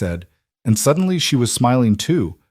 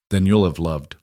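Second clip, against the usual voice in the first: gentle; 3 semitones lower than usual. Acted. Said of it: "Luke interrupted gently".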